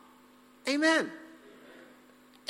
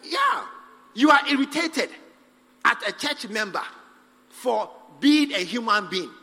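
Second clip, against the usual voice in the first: emphatic preaching; 4 dB louder than usual. Real, not acted. Preacher to congregation, loud and emphatic. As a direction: drive the point home loudly.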